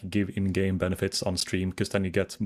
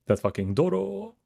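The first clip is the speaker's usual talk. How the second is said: excited squeal; 10 semitones higher than usual. Real, not acted. Laughing at fan art.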